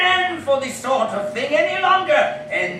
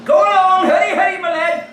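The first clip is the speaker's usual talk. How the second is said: urging shout; 3 semitones higher, 5 dB louder, faster than usual. Acted. Urging the boy to run.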